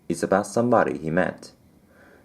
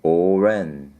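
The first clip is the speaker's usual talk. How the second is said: sobbed; 4 dB louder than usual. Acted. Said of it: "he sobbed".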